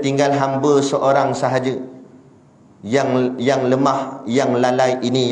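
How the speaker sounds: a touch of lowly pleading, unhurried; humble yourself before your Lord; humble plea. Acted. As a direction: angel pleading humbly to God. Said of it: "merendah diri pada Allah".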